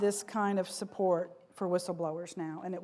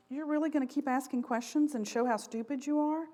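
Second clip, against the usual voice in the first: mildly incredulous put-down, pitched higher; mock intimidation; 4 semitones higher than usual. Executives to anyone who keeps asking questions, imitated intimidation. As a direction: imitate a condescending challenge to a questioner. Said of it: "the implication was".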